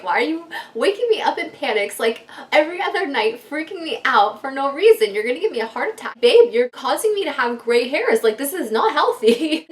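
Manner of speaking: half-joking fed-up rant; retold exasperation. Retold scolding of husband.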